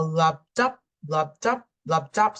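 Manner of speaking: "lub dup" with the pitch stepping up on "dup"; heartbeat imitation. Shown as a demonstration. Teacher demonstrating heart sounds to students, rhythmic "lub dup" rising on "dup". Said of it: "so a softer pitch and a shorter".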